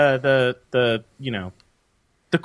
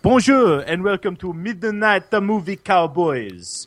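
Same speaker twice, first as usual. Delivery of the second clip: put-on higher, sing-song botched French accent; French accent sounding Italian; 4 semitones higher than usual. Host greets listeners, French accent that slips into Italian. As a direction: aim for French, come out Italian. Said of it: "It's Italian, you fat wop".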